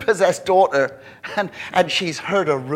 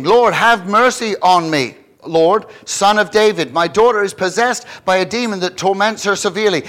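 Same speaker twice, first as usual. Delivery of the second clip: pleading woman; 4 semitones higher, 6 dB louder than usual. Acted. Woman's plea read in sermon.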